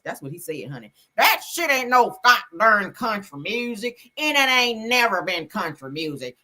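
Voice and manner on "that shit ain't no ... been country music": mock Southern country accent, hammed-up. Southern country accent mocking the singer who slammed a pop star. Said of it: "in my country voice".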